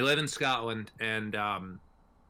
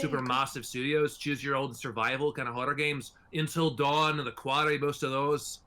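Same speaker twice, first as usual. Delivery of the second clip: put-on Scottish accent. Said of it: "you're giving him a Scottish accent".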